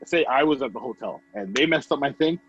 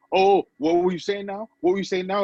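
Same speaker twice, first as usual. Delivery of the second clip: mocking taunt; 6 semitones higher than usual. Imitating antagonizing worker.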